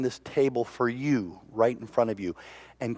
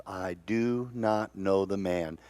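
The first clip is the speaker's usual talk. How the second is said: quiet denial; 4 semitones lower, 7 dB quieter, slower than usual. Acted. Peter denies Jesus a third time.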